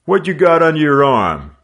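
loud and high, short and sharp; abrupt demand. A narrator's reading. Gang leader to Fred, loud abrupt demand. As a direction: snap the question at him. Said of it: "the leader demanded abruptly".

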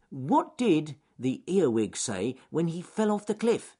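high, bouncy little rabbit. A narrator's reading. Alec teasing his friends with a riddle, high rabbit voice. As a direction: pitch it up as a cheeky young rabbit.

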